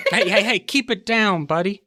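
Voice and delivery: high-pitched, flustered telling-off; agitated guard reining someone in; urgent scolding. Acted. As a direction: shush someone who is yelling. Guard scolds player for yelling.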